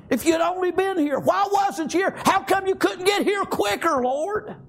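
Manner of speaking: grieving Martha. Retold or imitated. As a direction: cry out to the Lord like a grieving sister. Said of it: "She said".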